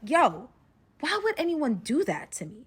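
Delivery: mock-outraged, rising complaint; retold exasperation. Betrayed captive fuming to herself, exasperated. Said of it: "I'm getting really mad".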